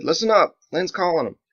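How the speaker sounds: firm call to the squad. Acted. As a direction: get their attention. Biggs gives orders.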